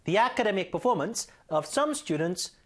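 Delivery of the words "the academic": "The" said "thee", running into "academic". Shown as a demonstration. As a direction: read "The academic" with a long ee in "The". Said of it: "모음 발음 앞이니까". ("The"를 '디'로 읽기)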